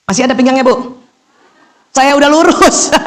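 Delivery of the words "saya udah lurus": laughing. Real, not acted.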